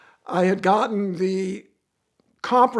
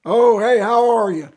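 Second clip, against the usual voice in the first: put-on strong Southern accent; 6 dB louder than usual. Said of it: "they got strong Southern accent".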